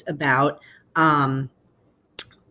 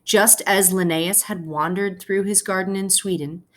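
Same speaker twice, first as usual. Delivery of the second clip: gentle read-aloud to the class; story narration. A narrator's reading. Teacher reading a picture book to her class, storytelling voice. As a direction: tell the story slowly to your students.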